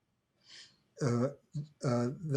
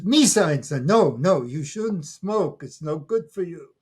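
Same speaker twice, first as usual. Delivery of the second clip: mock scolding old woman; 3 semitones higher, 5 dB louder than usual.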